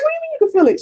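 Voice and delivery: high, baffled challenge; incredulous question. Retold or imitated. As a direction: press her on it in disbelief. Questioning mother's claim.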